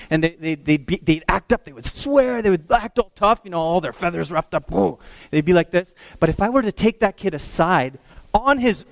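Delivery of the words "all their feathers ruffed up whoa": ordinary talk, nothing marked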